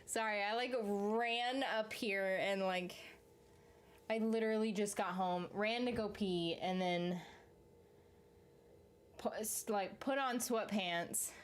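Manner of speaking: breathless after running upstairs; panting between words; out of breath. Real, not acted. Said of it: "I'm so out of breath".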